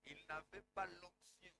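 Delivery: soft, low-pitched delivery. Shown as a demonstration. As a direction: keep it hushed, without preaching force. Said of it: "si je parle à voix basse". (à voix basse)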